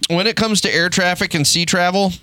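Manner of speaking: hammed-up proud decree; a touch of swaggering bravado; mock brash American. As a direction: announce it like you own the world. Mock American declaration to world.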